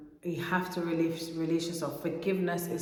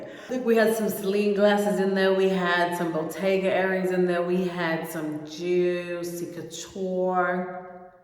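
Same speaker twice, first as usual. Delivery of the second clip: bragging; 3 dB louder, slower than usual. Real, not acted. Bragging about expensive items.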